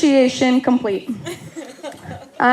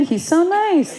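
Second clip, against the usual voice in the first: higher-pitched imitation of mom's praise; mock gushing; 6 semitones higher than usual. Sister quoting what mom said of the boyfriend, mock gushing.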